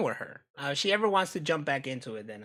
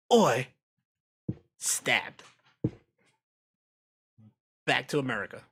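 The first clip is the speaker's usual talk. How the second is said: Cockney Oi; 2 semitones lower than usual. Pretend. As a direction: bark Oi like a London thug. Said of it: "and I'm like".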